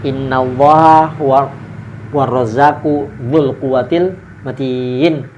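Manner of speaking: slow, drawn-out recitation. Shown as a demonstration. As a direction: recite it slowly, stretching the vowels. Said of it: "baru habis itu baca". (bacaan ayat yang pelan)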